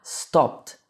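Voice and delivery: "stopped" ending in a T; final T sound. Shown as a demonstration. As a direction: say "stopped" slowly, with a T straight after the P. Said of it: "com o T".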